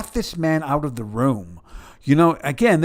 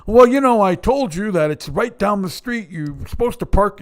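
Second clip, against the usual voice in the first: mock nagging mother; 7 semitones higher, 7 dB louder than usual.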